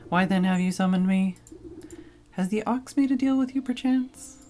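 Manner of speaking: a pompous field spirit offering a deal; Harvest Master scarecrow. Acted.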